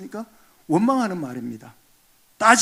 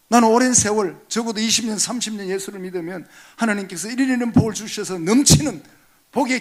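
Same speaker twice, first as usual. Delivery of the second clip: complaining believer; 4 semitones higher, 7 dB louder than usual. Retold or imitated. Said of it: "따진 거죠".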